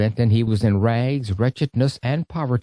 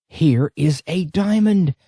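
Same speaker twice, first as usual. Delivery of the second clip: raised, higher exclamation of discovery; excited shout; 5 semitones higher than usual. A narrator's reading. Priest bursting into the room, shouting at the flashing stone. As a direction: call it out as if spotting treasure. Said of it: "rushed up to it and shouted".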